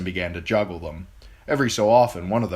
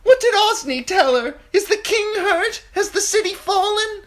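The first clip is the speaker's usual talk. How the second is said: very high, loud panicked questions; frightened guests demanding news; frantic shouting; 8 dB louder than usual. A narrator's reading. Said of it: "someone else shouted".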